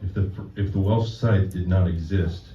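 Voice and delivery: deliberate deadpan delivery, phrase by phrase; poetry reading. Acted. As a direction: read a mock-solemn poem to an audience. Reads own poem to audience.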